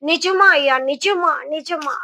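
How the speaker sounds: joyful cry of disbelief fading on the last repeat; overjoyed disbelief. Acted. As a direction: burst out happy, hardly believing the news. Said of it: "ఆ స్త్రీ చాలా సంతోషపడింది".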